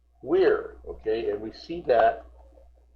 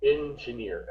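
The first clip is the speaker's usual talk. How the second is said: "Engineer" with the accent on final -neer; stress on last syllable. Shown as a demonstration. Teacher drilling the student, "Engineer" stressed on the end. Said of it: "that stress goes on the last syllable".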